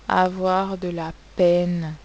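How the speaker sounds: slow, loud dictation. Shown as a demonstration. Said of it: "teacher dictation".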